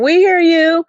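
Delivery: loud, lifted acknowledging call. Retold or imitated. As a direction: sing it out so they can hear you. Calling out to creatures in woods.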